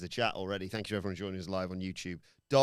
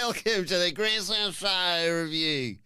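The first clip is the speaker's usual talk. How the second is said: mock Australian accent; 6 semitones higher, 7 dB louder than usual. Podcast host opening the review in a mock Australian accent. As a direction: play a hammed-up Aussie presenter. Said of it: "you could do it in all Australian".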